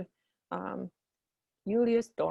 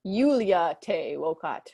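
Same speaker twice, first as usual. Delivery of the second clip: lightly voiced boy; 2 semitones lower than usual. Quintus answers his mother.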